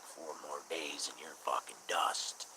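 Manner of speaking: lightly voiced caller counting down. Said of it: "they'd be like".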